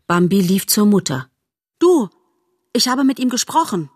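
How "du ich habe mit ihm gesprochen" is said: excited. Acted. Excited fawn runs to mother.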